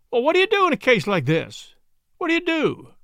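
high, rising panic; anxious plea. Acted. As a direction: beg for an answer, scared. Anxious drummer.

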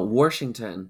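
Washington echoed as "Worshington"; mimicked R in Washington. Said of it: "There's no R in Washington".

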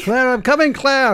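hammed-up Scottish accent. Jamie answers Claire's call, hammed-up Scottish accent. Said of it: "you lost the accent there".

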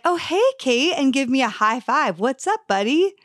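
high, casual mock-friendly greeting; breezy boyfriend voice. Boyfriend greeting her casually at the bar, airy and high. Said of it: "he would be like".

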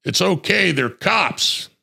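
light imitation of a rookie reassuring; half-voiced reassurance; imitating the partner. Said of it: "the bookman says".

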